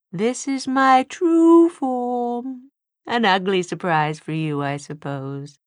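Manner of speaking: high, slow, gloating demon. A narrator's reading. Demon character voice.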